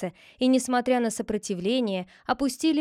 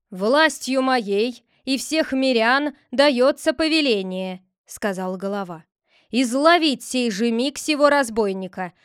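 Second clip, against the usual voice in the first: commanding decree; 2 semitones higher, 6 dB louder than usual. Acted. The head issues a decree to the villagers, commanding. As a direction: proclaim it with authority.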